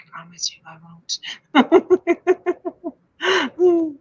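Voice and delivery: hushed ghostly promise with a wailing drawn-out end; half-laughing mock ghost moan; haunted voice. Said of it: "That's in my haunted voice".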